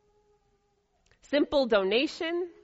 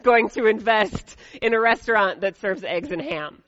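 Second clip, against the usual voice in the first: loud, startled pig refusing; loud proclamation; 7 dB louder than usual. A narrator's reading. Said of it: "turns to Chicken and proclaimed".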